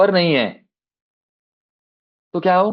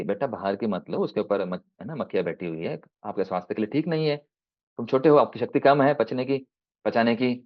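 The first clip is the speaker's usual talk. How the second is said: soft fatherly voice; 3 semitones lower, 6 dB quieter than usual. Acted. Father refuses the sweets.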